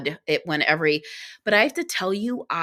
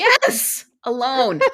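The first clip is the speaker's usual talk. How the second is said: high, bright, louder "Yes, alone"; emphatic yes; 5 semitones higher, 4 dB louder, much slower than usual. Retold or imitated. She answers the breakfast woman, emphatic and amused. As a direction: hit it with amused exasperation. Answering everyone's question again.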